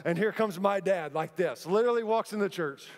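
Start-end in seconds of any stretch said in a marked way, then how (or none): none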